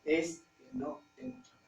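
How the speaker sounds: imitating a jobless man pleading; desperate man quoted. Friend tells of a father without work, lightly imitated plea. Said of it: "y de pronto me dice".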